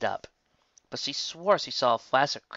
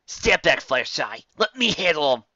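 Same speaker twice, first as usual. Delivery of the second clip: louder firm command; protective order; 4 semitones higher, 5 dB louder than usual. Acted. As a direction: shield your friend.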